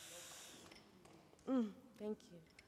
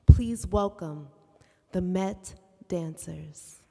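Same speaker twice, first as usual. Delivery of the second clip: booming slow welcome; announcer voice; 7 dB louder, slower than usual. Acted. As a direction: call it out like a stage announcer. Introducing dancers to audience.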